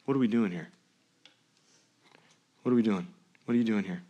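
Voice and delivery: soft, questioning repetition; gentle question. Retold or imitated. Pastor echoing God's question, soft and searching. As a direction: let the question land gently. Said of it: "listen, pin this".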